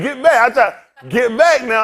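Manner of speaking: loud firm command, falling; get back order. Retold or imitated. Retelling ordering his date to get back, loud command. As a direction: push her away with words.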